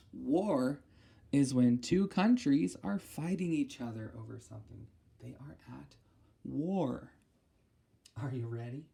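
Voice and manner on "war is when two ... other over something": ordinary delivery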